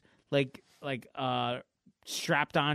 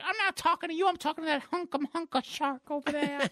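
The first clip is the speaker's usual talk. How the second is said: high, hammed-up coquettish voice; flirting superheroine; 10 semitones higher, faster than usual. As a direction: play the cartoon flirt, pitched up. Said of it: "I'm flirting, honey".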